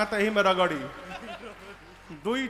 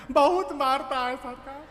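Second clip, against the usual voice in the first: higher, half-laughing report; nervous laughing; 4 semitones higher than usual. Acted. Guard reporting to Ravana about the biting monkey, nervous laughter. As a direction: laugh nervously while telling it.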